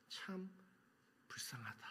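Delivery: 불쌍하다 breathed out in an unvoiced whisper, falling. Shown as a demonstration. Pastor to congregation, pitying Peter, whispered 불쌍하다. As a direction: hush it, almost to yourself, 불쌍하다.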